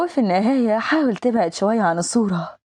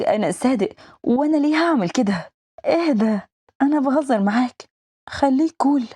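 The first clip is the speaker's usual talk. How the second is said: higher, jittery protest; nervous; 4 semitones higher than usual. Acted. Man denies betrayal to his boss, nervous and higher. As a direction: caught out, laughing it off nervously. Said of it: "بيتوتر ليه".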